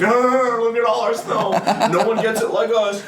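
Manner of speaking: high, loud sneering put-on voice; mock smug local. Mocking Massachusetts people showing off their snow, high and loud. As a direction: lay on the smugness.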